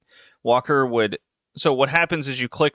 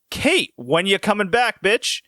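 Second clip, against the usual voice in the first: higher, slow mocking whine of a rude fiance; imitating Dan; 8 semitones higher, slower than usual. Mocking the fiance's phone call to Kate, higher slow whine. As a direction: lampoon the selfish husband on the phone. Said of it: "And he's like".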